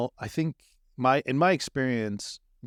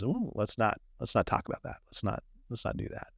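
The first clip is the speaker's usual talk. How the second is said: soft, hushed inner warning; 6 dB quieter than usual. Retold or imitated. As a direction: half-whisper a nervous retreat. Voicing fearful inner instinct.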